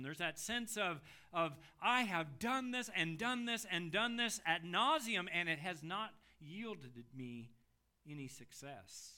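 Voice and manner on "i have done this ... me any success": weary, mocking "done this and done this"; sarcastic. Preacher mimicking the psalmist's fruitless prayers, sarcastic. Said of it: "that sense of that sarcasm".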